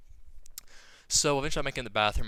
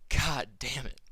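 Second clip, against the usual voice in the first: whispered curse; slower than usual. Retold or imitated. Frustrated inner reaction in car.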